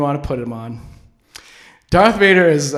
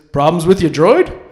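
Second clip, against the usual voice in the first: Lando line; 7 dB louder than usual. Acted. Lando asks the Emperor.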